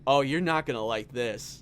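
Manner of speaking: low, gleeful tease; mild mock glee; twisted joy. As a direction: relish the bad news. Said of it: "with some kind of twisted joy".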